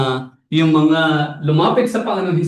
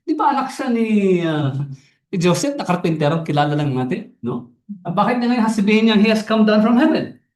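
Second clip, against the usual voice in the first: indignant Jews; 7 semitones higher, faster than usual. Retold or imitated. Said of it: "Nagalit yung mga Hudyo".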